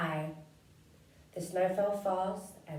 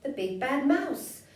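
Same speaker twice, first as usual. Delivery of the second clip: loud, high scared yell; 7 semitones higher, 5 dB louder than usual. Acted. Gruffalo's child shrieks at the shadow, loud and high. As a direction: cry out the name in fright. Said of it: "yelled the Gruffalo's child".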